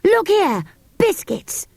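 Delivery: high, eager triumphant shout of discovery; excited cry. A narrator's reading. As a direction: show them the biscuits, thrilled. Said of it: "he cried".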